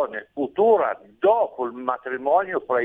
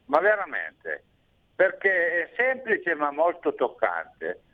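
radio show caller. Real, not acted. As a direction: voice over a phone line. Abbiamo un ascoltatore in linea. (ascoltatore al telefono)

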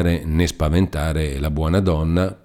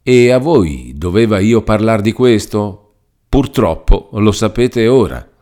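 gently reproachful, a little raised; admitting a friend was wrong; 5 semitones higher, 7 dB louder than usual. A narrator's reading. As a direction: Lucia gently reproaching Renzo, half apologetic. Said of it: "con quella voce che vuol far riconoscere a un amico che ha avuto torto".

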